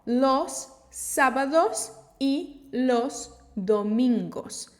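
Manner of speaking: Los sábados y los domingos very slow, every o full and round; clear Spanish o. Shown as a demonstration. Teacher modelling Spanish o for learners, slow and clear. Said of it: "a gente usa a letra O".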